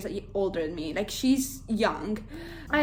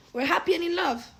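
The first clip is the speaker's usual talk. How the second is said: mock the too-perfect couple; higher, mock sing-song; 8 semitones higher, 4 dB louder than usual. Reader teasing the blissful couple before the twist, mock sing-song. Mocking the book's happy phase.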